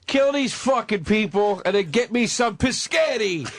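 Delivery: slow, hammed-up Italian dictator voice; slow mock Italian strongman; Mussolini impression. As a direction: bark orders like a cartoon Italian dictator. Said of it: "I'm Mussolini over here".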